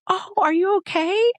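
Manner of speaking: high, chirpy greeting, pitch well up; sweet nurse voice. Retold or imitated. Student nurse greeting her patient, high chirpy sweetness. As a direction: sing it out like an eager student nurse.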